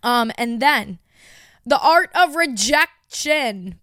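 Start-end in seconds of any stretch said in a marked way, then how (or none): 1.7-3.8 slow, drawn-out dramatic announcing; dramatic title read. Real, not acted. Co-host presenting an old episode, slow and dramatic. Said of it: "I don't know why I said it like that".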